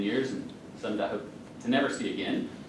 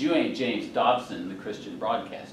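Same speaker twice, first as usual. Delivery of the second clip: deadpan. Retold or imitated. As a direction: hand down a dry verdict. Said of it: "She looks at me deadpan".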